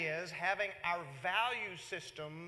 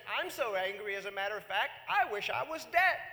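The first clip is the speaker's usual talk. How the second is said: mock whine; 4 dB louder than usual. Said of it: "where he says".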